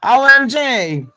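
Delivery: loud, high O M G; real shock. Real, not acted. Vlogger reacting to a roadmap face, loud high shocked blurt. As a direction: blurt it out stunned.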